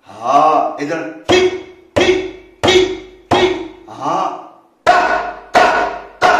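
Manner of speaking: sharply detached "ঠিক" and "টা", each struck alone; crisp drum bols. Shown as a demonstration. Teacher showing how to pronounce drum syllables, short and crisp. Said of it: "এইরকম উচ্চারণ করতে হবে".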